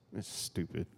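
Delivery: low, soft grumble under the breath; sneering aside under the breath; mock muttered insult.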